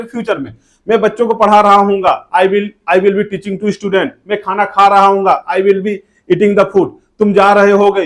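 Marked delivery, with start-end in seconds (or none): 2.4-4.1 slow, careful English, word by word; slow model sentence. Shown as a demonstration. 5.5-6.9 slow, careful English, word by word; slow model sentence. Shown as a demonstration.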